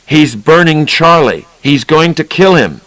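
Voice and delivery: lightly voiced alarmed father; screaming. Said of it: "Sanford Babbitt screaming".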